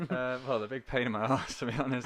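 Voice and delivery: amused admission with laughs breaking in; laughing. Real, not acted. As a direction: chuckle through the confession. Laughing while admitting a complaint.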